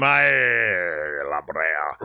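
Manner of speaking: a light Scottish accent on "Aye, La Brea". Shown as a demonstration. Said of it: "I'll speak in my Scottish accent".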